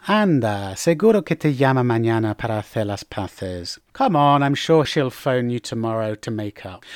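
gently reassure, with falling tune; sympathetic. Shown as a demonstration. Comforting friend after a quarrel, sympathetic. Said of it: "used to express sympathy".

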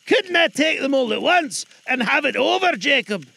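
put-on high, loud coaxing old man; hinting Scrooge. Scrooge hinting to the ghost, coaxing. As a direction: sound him out hopefully. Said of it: "hinted Scrooge".

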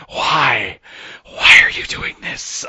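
a half-sobbed, breathy why; mock anguished cry. Real, not acted. Fan pleading with the filmmakers, mock anguished. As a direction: plead in mock despair at the screen.

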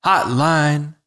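high, theatrical verse opener; slam poetry delivery. Shown as a demonstration. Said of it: "So you call and you say".

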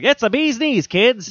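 high fifties-style hammed voice; old-timey voice. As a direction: chirp it like a fifties radio host.

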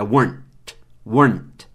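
"weren't" curto, uârnt, numa sílaba; weren't sem o "ent". Shown as a demonstration. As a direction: feche "weren't" direto no NT, sem vogal. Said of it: "Esquece o ent". ("weren't" didático, de um golpe só)

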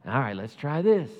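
God giving up and trying again, a touch of comic despair; exasperated God. Retold or imitated. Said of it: "And so God's like".

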